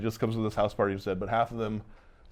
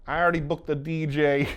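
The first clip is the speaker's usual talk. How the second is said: mock insistent; 5 semitones higher, 3 dB louder than usual. Retold party owner refusing to cancel.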